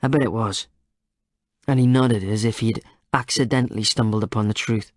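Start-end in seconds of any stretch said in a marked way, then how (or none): 0.0-0.7 reasonable tone. A narrator's reading. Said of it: "his tone suddenly reasonable again".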